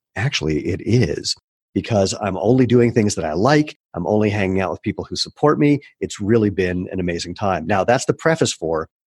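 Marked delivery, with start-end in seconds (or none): none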